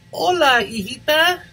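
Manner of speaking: doting grandparent. Acted. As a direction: coo over the grandchild lovingly. Grandparents greeting the child.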